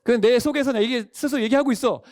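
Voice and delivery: normal talking voice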